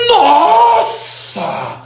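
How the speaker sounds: very high, hugely stretched vowels; hammed-up impression of an impassioned speaker; Clóvis de Barros. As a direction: sing out each word in theatrical wonder. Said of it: "Ele fala".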